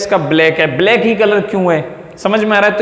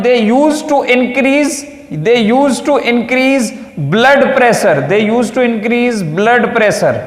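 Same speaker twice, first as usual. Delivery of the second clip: very slow, higher, word-by-word dictation; 5 semitones higher, much slower than usual. Shown as a demonstration. Teacher dictating the drug's use to the class, very slow. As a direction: draw every word out so the class can write it down.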